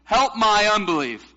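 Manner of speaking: loud, high-pitched plea; crying out. Retold or imitated. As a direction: cry it out to be heard. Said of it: "cried out and said".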